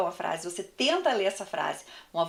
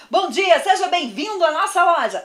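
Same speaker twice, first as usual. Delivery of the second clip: much louder and higher shop welcome; too loud greeting; 9 semitones higher, 9 dB louder than usual. Shown as a demonstration. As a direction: blast the welcome at the customer. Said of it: "uma pessoa que fala muito alto".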